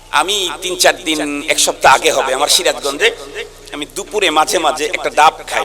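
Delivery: ordinary talk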